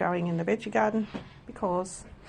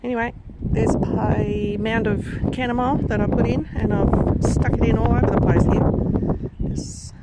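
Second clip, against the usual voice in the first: shouting over wind; 3 semitones higher, 4 dB louder than usual. Real, not acted. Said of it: "Here comes that blast of wind".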